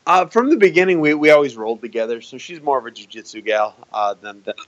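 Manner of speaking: hiccupping through the words; with hiccups. Real, not acted. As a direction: talk with hiccups, breath catching. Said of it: "Sorry, I got the hiccups".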